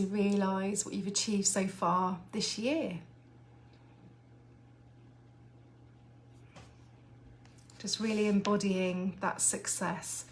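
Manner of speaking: gently paced meditation guide; guided visualisation. Acted. Guides listeners through visualisation.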